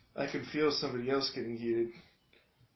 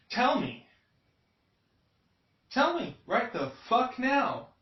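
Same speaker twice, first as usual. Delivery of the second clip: pretend confrontation; 11 semitones higher, 5 dB louder than usual. Imagined confrontation with attacker.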